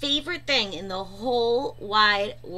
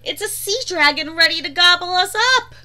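frightened cry; 6 semitones higher, 7 dB louder, faster than usual. A narrator's reading. Frightened character cries out.

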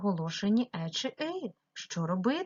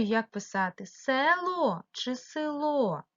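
«село» and «село» said slowly, stress moved between the syllables; stress contrast; 4 semitones higher, slower than usual. Shown as a demonstration. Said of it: "не знаю". (повільно, зі зміною наголосу в «село»)

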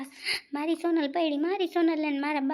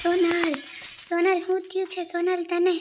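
calling out; 3 semitones higher, 4 dB louder than usual. Acted. Husband calling for fallen wife.

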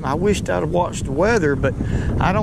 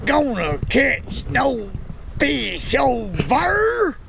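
mock teasing voice; 10 semitones higher, slower than usual.

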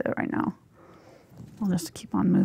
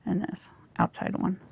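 talking around a paintbrush in the mouth; words muffled by a brush held in the teeth; mouth full; 4 dB quieter than usual. Real, not acted. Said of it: "Got my brush in my mouth".

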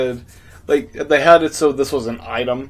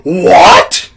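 princess voice; 8 semitones higher, 9 dB louder than usual. Pretend. Voicing Princess Ruto.

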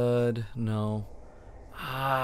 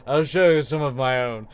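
put-on sweet old charm seller; 5 dB louder than usual. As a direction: coo at the customer like a doting old shop lady.

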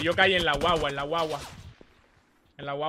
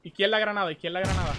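grenade warning yell; 4 semitones higher than usual. Real, not acted. Grenade callout to team.

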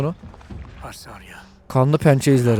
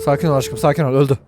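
soothing; 4 semitones lower than usual. Real, not acted. Gamer gently calming his wolf after a fight.

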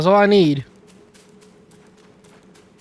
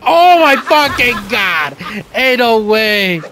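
shocked outburst; 3 semitones higher, 3 dB louder, slower than usual. Real, not acted. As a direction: drag it out in real shock. Losing a fight in game.

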